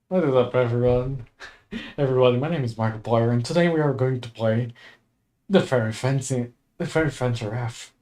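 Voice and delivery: Markiplier intro. Retold or imitated. Streamer attempting the Markiplier intro, lightly deepened. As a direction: boom out a big channel greeting. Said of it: "I can't do the Markiplier voice".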